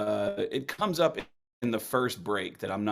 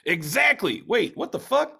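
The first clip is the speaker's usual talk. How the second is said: agreeing, then a much higher startled jolt; sudden double take; 10 semitones higher, 5 dB louder than usual. Retold or imitated. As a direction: catch yourself mid-agreement in shock. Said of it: "And I said".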